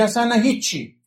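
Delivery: put-on high, loud brush-off like a sulky teenager; dismissive teen. Teenager dismissing a parent's talk, high and curt.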